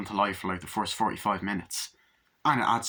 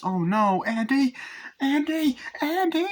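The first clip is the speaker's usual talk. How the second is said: rising higher and louder on each Andy; frantic calling; 4 dB louder, slower than usual. Retold or imitated. Mother searching the house for her son, frantic calls. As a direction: call for the boy in growing panic.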